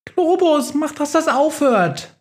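high squeaky plea, scared; frightened mouse begging Globus to stop the storm; squeaky panic. Acted. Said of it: "Quietscht die Maus wieder".

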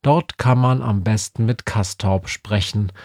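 usual speaking voice

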